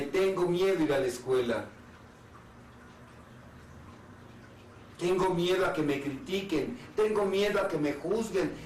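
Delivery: a lightly voiced scared child begging parents to hold him; frightened inner child. Inner child tells his parents his fears, lightly voiced pleading child.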